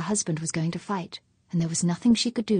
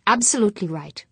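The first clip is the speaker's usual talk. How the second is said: a touch louder, hard and bitter; bitter snapping; 3 semitones higher, 5 dB louder than usual. Acted. Fuchs insisting to his wife he would kill, bitter and hard. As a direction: press the point home with anger. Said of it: "he snapped".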